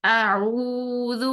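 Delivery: اعوذ slow, ذ with the tongue tip touching the teeth softly. Shown as a demonstration. Teacher demonstrating a gentle ذ in اعوذ. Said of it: "زبان کی نوک ... touch کریں".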